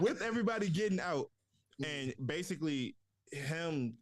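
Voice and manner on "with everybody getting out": said through a laugh; chuckling over the words. Real, not acted. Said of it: "laughs then repeats".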